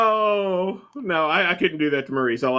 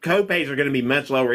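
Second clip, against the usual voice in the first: mouth full. Real, not acted. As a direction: still chewing while talking. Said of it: "I'm eating".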